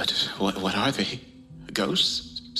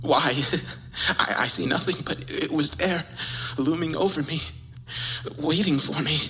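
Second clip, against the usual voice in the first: rising panic; 2 semitones higher than usual. Acted. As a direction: let the fear build to the end. Senses presence, rising panic.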